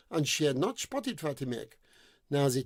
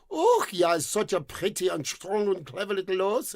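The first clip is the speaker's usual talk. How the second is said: sweet-talking prince; 2 semitones higher than usual. Acted. Prince flatters the horse.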